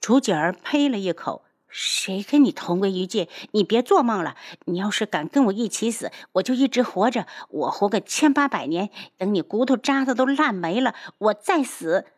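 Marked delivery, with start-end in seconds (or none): 1.7-12.1 spiteful defiant rant; indignant, building in pitch; hateful, through gritted teeth. Acted. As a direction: spit back a vindictive vow. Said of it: "咬牙切齿".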